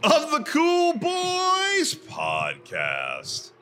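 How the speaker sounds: slow, drawn-out ghostly wail. Shown as a demonstration. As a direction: keep up the spooky ghost voice. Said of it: "I'm sounding like a ghost".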